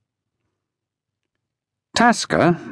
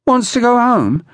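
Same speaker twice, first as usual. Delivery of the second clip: high-pitched, incredulous question; mock incredulous echo; 10 semitones higher than usual. A narrator's reading. Brigg echoes Lantry's explanation, scornfully incredulous. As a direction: throw it back in disbelief, pitched right up.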